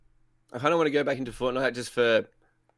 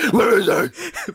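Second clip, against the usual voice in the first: drawn-out high plaintive call; slow, high, sing-song calling; high searching call; 12 semitones higher, 7 dB louder, much slower than usual. Pretend. Calling out for Batman.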